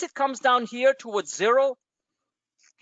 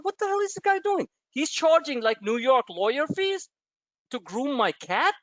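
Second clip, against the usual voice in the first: higher, mock-indignant disbelief; incredulous outrage; 5 semitones higher than usual. Retelling his outrage at the groomer's price, in mock disbelief. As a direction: act out the outrage for laughs. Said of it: "I said".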